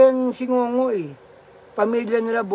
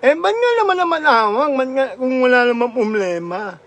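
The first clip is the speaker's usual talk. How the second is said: puzzled mother in a put-on Ngongo voice; mock Ngongo mother; 3 semitones higher than usual. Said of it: "yung kwento ni Ngongo".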